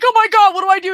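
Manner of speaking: high, loud frantic mimic of the girlfriend; mock panic. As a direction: play her as frantic and lost. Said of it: "she's like".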